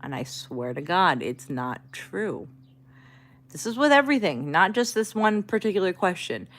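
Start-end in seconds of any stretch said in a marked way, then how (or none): 0.0-2.5 third-try reassurance. Retold or imitated. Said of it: "Third tone, I'm like".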